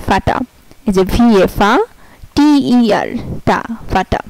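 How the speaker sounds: "ফাটা" with v as f, er as a; German word Vater. Shown as a demonstration. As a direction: read the example. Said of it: "যেমন ভিএটিইআর".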